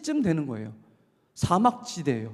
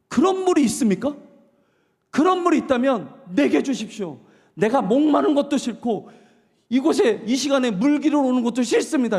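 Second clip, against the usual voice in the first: eager woman; 5 semitones higher, 3 dB louder than usual. Retold or imitated. Woman changes attitude, pleads.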